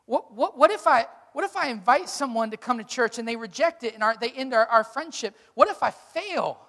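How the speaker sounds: a fearful inner voice, lightly acted; anxious voice of fear. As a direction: voice the nagging fear, mounting. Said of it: "It's the voice of fear".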